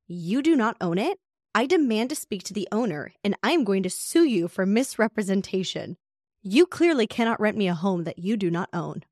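mildly indignant renter. Retold or imitated. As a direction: play the outraged guest suing the host. Renter threatens lawsuit.

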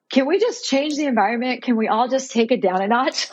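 tentative mock request; mock pleading. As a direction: ask it like a silly, hopeful request. Imagined plea to medical staff.

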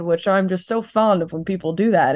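dry sarcastic aside. Real, not acted. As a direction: say it with heavy sarcasm. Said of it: "I hope you can hear my sarcasm".

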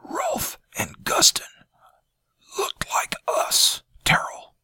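strained, rasping whisper; hoarse whisper. A narrator's reading. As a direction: barely get the words out. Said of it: "his voice hardly more than a hoarse whisper".

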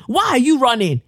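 high call after her. Pretend. Calling after Theresa May.

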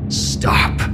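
eerie whispered command. A narrator's reading. Demon voice in Harold's head, whispered command. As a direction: order him from inside his head. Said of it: "a voice in Harold's head commanded".

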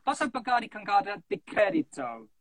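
Italian phrase. Shown as a demonstration. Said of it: "Actually say something to us in Italian".

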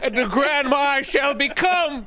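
crooning like a storybook crone; old hag. Acted. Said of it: "grandmas, don't talk like that".

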